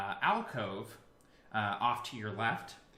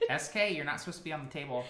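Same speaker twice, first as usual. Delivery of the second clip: real scolding; 4 semitones higher, much faster than usual. Real, not acted. Scolding a cat off the table.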